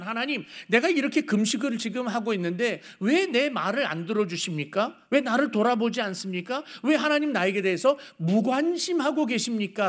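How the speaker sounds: a touch of petulant protest; mock complaint to God. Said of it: "라고 불평을 지금 하고 있는 거예요".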